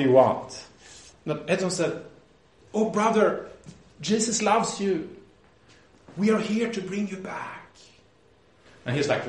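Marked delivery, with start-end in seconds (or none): 2.7-7.6 gentle appeal. Retold or imitated. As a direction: gently coax a brother back. Retold appeal to reluctant brother.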